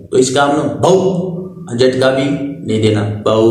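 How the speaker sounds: باؤ said softly, not stretched, no jolt; teacher showing how باؤ is read smoothly; soft, unstretched. Shown as a demonstration. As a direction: glide gently through باؤ without dragging it. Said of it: "کھینچ کے بھی نہیں پڑھنا".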